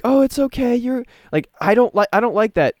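high, sweet mock-soothing voice; mock motherly comfort. Mocking a woman who comforts a crying man, high sing-song. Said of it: "trying to be like".

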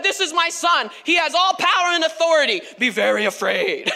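playfully ominous God; mock-ominous announcement. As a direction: build it quickly, then drop into mock menace. Imagined menacing announcement, then laughs.

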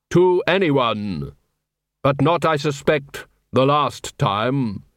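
very slow, grave Death voice; grim reaper voice. Acted. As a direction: draw each word out like the grim reaper. Death speaks to dead dwarf.

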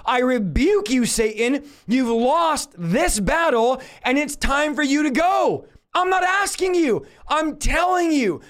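commanding, drawn-out rebuke rising in pitch; power and authority. Shown as a demonstration. Preacher demonstrating casting out Satan in Jesus' name, with authority. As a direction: order the demon out, leaving no room for argument. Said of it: "I'm praying with power and authority".

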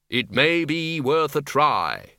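slow, grave Death voice; grim reaper voice. Acted. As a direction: say it slowly as Death. Death speaks slowly.

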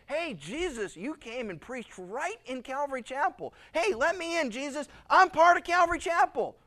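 a churchgoer begging at the gate, voice climbing; pleading churchgoer. Acted. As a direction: churchgoer begging Jesus to let him in, rising and loud. Congregant pleading with Jesus.

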